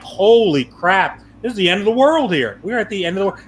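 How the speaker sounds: a mock-panicked end of the world; husband reliving the storm in mock alarm; alarmed exclamation.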